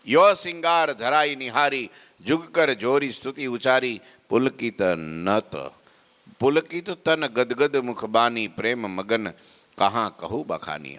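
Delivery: rhythmic kirtan recital, starting high; devotional verse recitation. Acted.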